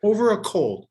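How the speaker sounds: loud, disbelieving repeat of the phrase; incredulous outburst. Real, not acted. To his co-host, scoffing at fear of a cold, loud disbelief. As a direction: throw the words back in outrage.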